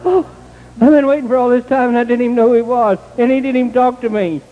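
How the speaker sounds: frustrated outburst relived; retold fit. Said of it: "I just about throwed the fit".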